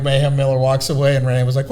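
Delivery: ordinary talk, nothing marked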